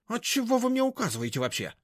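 very high, indignant; high-pitched huffy retort; bristling back. A narrator's reading. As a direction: bite back at orders. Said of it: "закусилась Машка".

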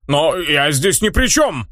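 slow, mild objection; mild protest. Acted. Hero protesting innocence, slow mild denial. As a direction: object calmly and slowly. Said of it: "возразил тот".

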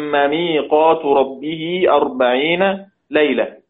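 slow recitation of ميقات ربه; slow tajwid reading; verse recitation. Shown as a demonstration. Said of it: "teacher recites example verse".

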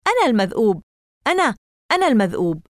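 loud crazed chant; manic shout. A narrator's reading. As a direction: cackle it madly. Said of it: "ضحكات الناسك المجنونة".

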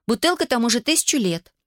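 high-pitched whiny protest to dad; wailing. A narrator's reading. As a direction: wail it lightly, like a teenager. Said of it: "взвыла Эмили". (жалобно, с подвыванием)

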